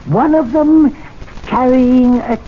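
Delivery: to his wife, reading out the prank notice grandly. Pretend. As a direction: declaim the prank notice with relish. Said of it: "Listen to this".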